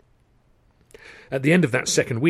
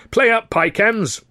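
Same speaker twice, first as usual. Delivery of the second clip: high, loud, drawn-out rallying cry; shouted cheer; 10 semitones higher, 5 dB louder, slower than usual. Acted. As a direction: cheer the team on from the stage. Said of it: "here and there to shout".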